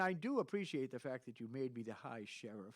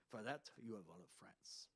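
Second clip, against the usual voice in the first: mock French accent; silly French guy; 7 dB quieter than usual. Shown as a demonstration. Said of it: "or the silly French guy".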